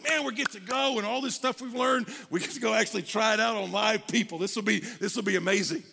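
eager imitation of a young pastor; excited. Young couple about to try out their learning, excited. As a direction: gush a little about getting to start. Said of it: "we were so excited about that".

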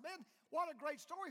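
high, loud retold enthusiasm; excited praise. Friend congratulating Joe on his story, excited. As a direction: cheer the story on with gusto.

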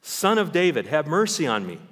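high, loud pleading cry; retold scream. Blind beggar screams to Jesus over the crowd, loud high plea. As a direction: shout for mercy over the crowd. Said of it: "He's screaming".

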